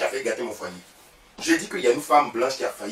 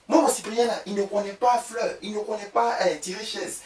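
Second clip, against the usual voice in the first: proud boasting; 8 semitones higher than usual. Retold or imitated. Boasting to rival, raised voice.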